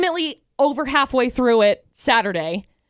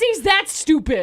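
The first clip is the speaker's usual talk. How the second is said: mocking friend; 4 semitones higher than usual. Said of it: "You said".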